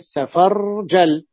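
very slow سفرجل, each letter separate; slow demo. Shown as a demonstration. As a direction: draw سفرجل out so letters can be counted. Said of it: "teacher counting letters of example".

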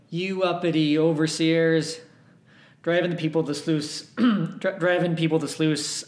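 a slow, half-hearted Southern drawl with a touch of rage; ghost's threat in a lightly done Southern accent; Southern drawl attempt. GM voicing the angry ghost at the players, mild Southern drawl. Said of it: "pathetic attempt at a Southern drawl".

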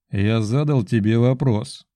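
slow, patient, even repeat. Acted. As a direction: say it slowly and patiently. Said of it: "терпеливо повторил я".

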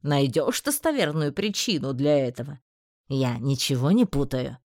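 low, deliberate, reproachful; stern male voice. Acted. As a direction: remind him pointedly. Magistrate quotes Einar's request.

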